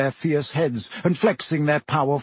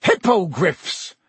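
happy roar, higher and drawn out; Hagrid; 4 semitones higher, slower than usual. A narrator's reading. Hagrid presents the creatures to his class, happy roar. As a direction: announce it proudly, slow and raised. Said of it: "Hagrid roared happily".

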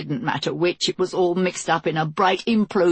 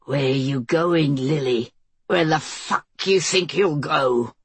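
menacing husband; 4 semitones lower than usual. Acted. Greg menacing Lily.

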